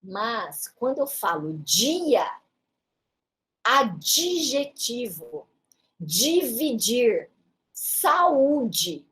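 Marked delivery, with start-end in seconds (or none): none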